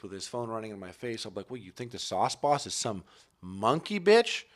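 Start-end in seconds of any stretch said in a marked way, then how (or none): 1.5-4.4 building from mock-offended to a high, loud outburst; sauce boss persona. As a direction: start indignant, then climb into a shouted rant. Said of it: "Let me hide behind this character".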